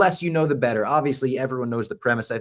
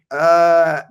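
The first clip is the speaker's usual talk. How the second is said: mock deflection; 7 semitones higher, 6 dB louder than usual. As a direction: act out someone pointedly dodging the question. Acts out actress dodging a question.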